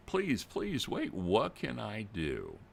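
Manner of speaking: high, pleading grandmother's plea; pleading grandma. Retold or imitated. Crying grandma begging the fake officer not to hang up, pleading. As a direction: beg him to wait, voice jumping up. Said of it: "Grandma is crying".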